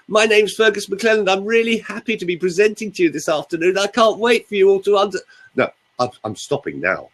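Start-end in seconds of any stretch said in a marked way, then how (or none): 0.1-5.2 higher, tense, eager presenter voice; high nervous voice. Shown as a demonstration. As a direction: sound like a nervous presenter whose voice has gone up. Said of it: "if I now speak to you like this".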